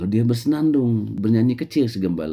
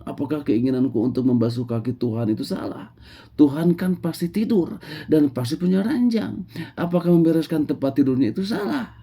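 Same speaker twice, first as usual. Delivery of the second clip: higher, puzzled musing; lightly voiced innocent shepherd; 9 semitones higher than usual. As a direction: wonder aloud innocently. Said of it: "ia merenung". (gembala polos yang bingung)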